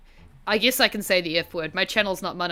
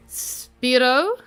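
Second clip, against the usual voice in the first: laughing question; 5 semitones higher, 6 dB louder than usual. Real, not acted. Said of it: "sorry for the complete agony".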